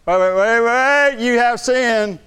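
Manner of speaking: high, loud accusing interruption; accusing devil voice. Retold or imitated. Preacher voicing the devil interrupting the prayer, high and accusing. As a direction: cut in like the devil, scolding. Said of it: "the devil talks like that".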